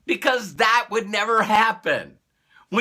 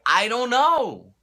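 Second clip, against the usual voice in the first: slow demo; 3 semitones higher, slower than usual. Shown as a demonstration. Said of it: "So you can say".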